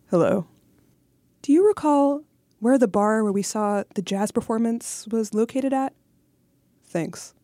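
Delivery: lightly voiced stiff ex-boyfriend; whiny ex impression. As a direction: read it like a pushy ex, lightly. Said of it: "receiving a message from your ex-boyfriend voice".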